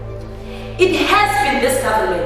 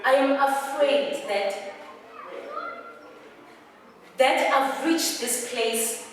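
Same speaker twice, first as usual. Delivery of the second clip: "I am afraid" broken off with long pauses; halting confession; 10 semitones higher, slower than usual. Acted. Actor confessing fear to Mama, halting phrase by phrase. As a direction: dig in, pausing after each phrase. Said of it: "you are digging in".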